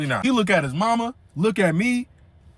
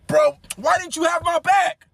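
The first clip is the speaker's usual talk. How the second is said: higher, louder mock rant; going off; 9 semitones higher, 4 dB louder than usual. Friend on the phone complaining, raised mock rant. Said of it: "He starts going off".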